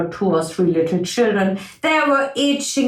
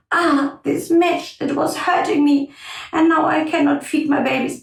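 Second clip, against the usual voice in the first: lightly voiced hurt fox, pitched up; complaining fox; 6 semitones higher than usual. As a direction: lament with a touch of complaint.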